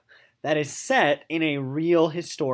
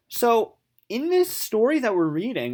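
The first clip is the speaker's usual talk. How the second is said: whisper; 6 semitones higher than usual. Real, not acted. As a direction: drop to a whisper. Teacher whispers aside mid-lesson.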